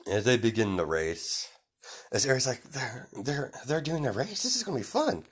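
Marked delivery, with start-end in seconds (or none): 2.6-5.2 put-on excited child.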